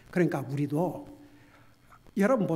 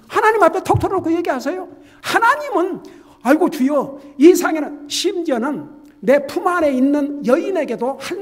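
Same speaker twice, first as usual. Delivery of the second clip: much higher and louder, urgent exhortation; preaching at full force; 9 semitones higher, 11 dB louder than usual. Acted. Pastor urging believers to tell God everything, in a high, loud, fervent voice. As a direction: plead with them to pour their hearts out. Preaching urges open prayer.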